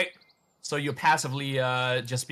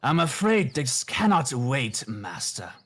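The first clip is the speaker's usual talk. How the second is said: demon voice. Acted. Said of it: "The demon goes on".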